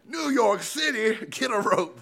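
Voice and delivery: high, drawn-out put-on voice; hammed-up, stretched-out imitation of a catchphrase; mock catchphrase. Preacher joking about the accent he slipped into, high mock drawl.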